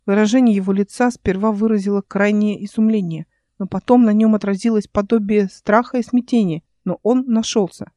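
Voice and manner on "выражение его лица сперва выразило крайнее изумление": ordinary delivery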